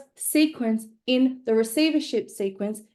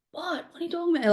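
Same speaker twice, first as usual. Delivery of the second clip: baffled what; 8 semitones higher, faster than usual. Retold or imitated. Friend confused at being kicked.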